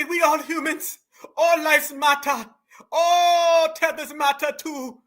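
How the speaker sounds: slowed, whiny mock quote; mock whine. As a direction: drag it out like a fake tearful plea. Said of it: "Did she just say".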